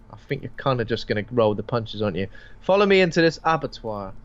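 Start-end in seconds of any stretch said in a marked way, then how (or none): 2.6-4.1 mock seductress. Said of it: "Scarlett Johansson is going".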